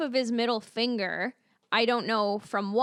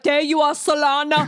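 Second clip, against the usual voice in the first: loud hammy reunion cry; mock dramatic call; 4 semitones higher, 7 dB louder than usual. Mocking the heroes finding the wife, a hammy shout. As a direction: call her name like a cheesy hero.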